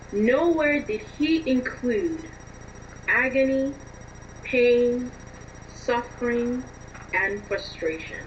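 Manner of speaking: slow, measured recital with long pauses; deliberate, solemn poetic delivery; recited line. Shown as a demonstration. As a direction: recite a love line, giving each word room. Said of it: "I would say a line".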